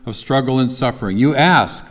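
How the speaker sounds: a lightly voiced wartime leader rallying a nation; measured, grave oratory with weighted pauses; wartime speech. Preacher quoting a leader readying people for war, mild oratory. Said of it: "that sounds like somebody that we would expect to deliver a speech if they were preparing the people for war".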